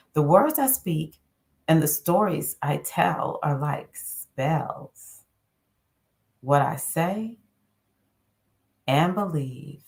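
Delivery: slow, measured card reading; affirmation reading. Acted. Reading the Casting Spells card to listeners, measured. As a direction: read it like a gentle incantation.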